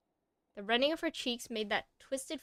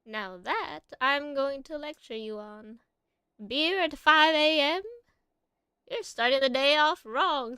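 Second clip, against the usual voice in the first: put-on scolding old lady, higher and louder; foul mouthed granny; 4 semitones higher, 6 dB louder than usual. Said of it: "my old lady voice".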